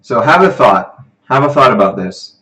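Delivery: projected, lively teaching voice; livestream presenter. Real, not acted. Tutor lays out tonight's review for students, projected. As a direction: address the online class with energy.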